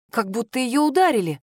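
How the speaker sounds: plain reading voice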